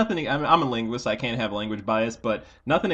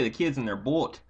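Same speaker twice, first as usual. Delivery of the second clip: mock Minnesota accent. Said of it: "You're so Minnesotan".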